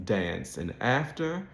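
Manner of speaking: dance and after with a front a and R; American flat A. Shown as a demonstration. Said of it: "in General American English would be pronounced".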